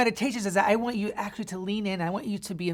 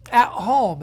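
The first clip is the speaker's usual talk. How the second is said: incredulous regret; 3 semitones higher, 6 dB louder, much slower than usual. Acted. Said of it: "and you're like".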